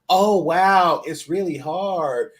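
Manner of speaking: slow mocking oh wow, really hard; sarcastic mock. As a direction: imitate the dismissive sarcasm. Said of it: "met with sarcasm like".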